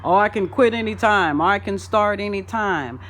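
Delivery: loud, careless shrug of a voice; mock carefree boast; lackadaisical quote. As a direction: toss it off like nothing matters. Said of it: "brings on a sense of lackadaisical".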